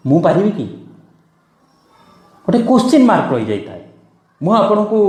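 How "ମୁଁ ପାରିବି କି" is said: mildly unsure question to oneself; self-doubting. Acted. Teacher voices a learner's hidden fear, doubtful. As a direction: ask it with a touch of hidden fear. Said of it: "ଗୋଟେ ଭୟ ଲୁଚିକିରି ରହିଥାଏ".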